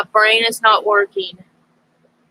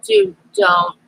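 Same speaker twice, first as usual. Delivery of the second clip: scolding the cat; 8 semitones higher than usual. Real, not acted.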